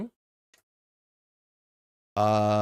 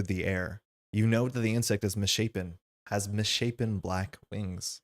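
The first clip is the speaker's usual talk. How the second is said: eerie story narration. A narrator's reading. Player reading the old mill text to the table, eerie narration. Reads scenario flavor text aloud.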